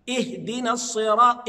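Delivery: "اهدنا الصراط" opening on a clear ih; sounded initial hamza. Shown as a demonstration. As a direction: begin "اهدنا" with a distinct glottal i. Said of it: "آتي بالهمزة".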